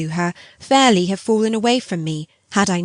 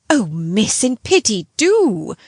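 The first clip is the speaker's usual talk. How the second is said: bursting out; 3 semitones higher, slower than usual. Acted. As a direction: blurt out an imploring plea. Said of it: "my friend broke out".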